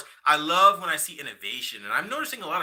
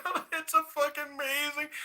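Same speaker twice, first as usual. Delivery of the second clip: excited; 12 semitones higher, 3 dB quieter than usual. Retold or imitated. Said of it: "I'm like".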